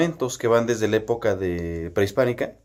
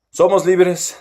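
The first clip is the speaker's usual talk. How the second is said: put-on old newsreel; 7 semitones higher, 3 dB louder, slower than usual. Shown as a demonstration. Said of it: "Vamos a poner una voz mamalona".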